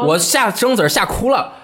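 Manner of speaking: ordinary talk, nothing marked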